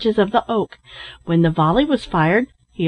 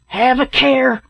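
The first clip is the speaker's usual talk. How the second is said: raised, urgent caution; warning cry; 5 semitones higher, slower than usual. A narrator's reading. Captain warns men nearing the bear, crying out. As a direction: call out a warning. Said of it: "cried the captain".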